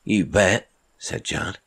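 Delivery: put-on brash young Cockney sailor greeting a stranger; Cockney accent. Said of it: "He had a strong Cockney accent".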